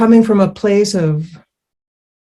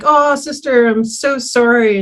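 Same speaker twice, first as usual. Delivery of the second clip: mock apology; 5 semitones higher than usual. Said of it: "I'm like".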